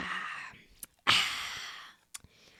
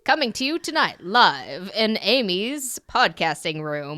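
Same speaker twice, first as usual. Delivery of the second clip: slow, louder announcer delivery; game show host; 2 semitones lower, 4 dB louder than usual. Pretend. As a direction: hype it like a TV host. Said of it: "I'm a game show host".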